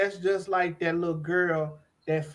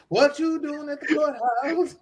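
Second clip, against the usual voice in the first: laughing quote; 5 semitones higher, 3 dB quieter than usual. Retold or imitated. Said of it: "I remember that".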